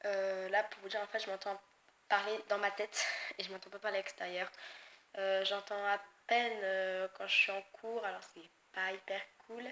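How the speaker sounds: sick, stuffy, sore throat voice. Real, not acted. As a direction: talk through a cold and sore throat. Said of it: "désolée pour ma voix qui est vraiment pas terrible".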